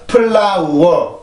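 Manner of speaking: stretched-out "플라워", every vowel separate; 한국식 늘인 발음. Shown as a demonstration. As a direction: say "플라워" slowly with a full 우 before 워. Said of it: "이게 아니라 플라워". ("플라워"를 모음 하나하나 늘여 발음)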